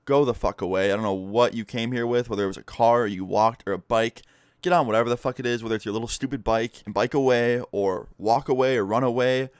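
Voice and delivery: retold stern warning, firmly punched words; fed-up ultimatum. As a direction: order an intruder out, patience used up. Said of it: "I about had it with this guy's bullshit".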